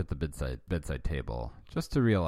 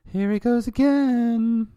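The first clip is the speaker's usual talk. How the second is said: high, loud, slow exasperated wife; Kate's weary line; 10 dB louder, slower than usual. Acted. Wife fed up with Alf's noise, high and exasperated. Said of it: "Oh, sorry, this is Kate".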